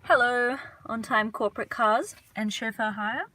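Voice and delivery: high, loud, cheery hail; playful calling out. Real, not acted. Greets a passing company car aloud.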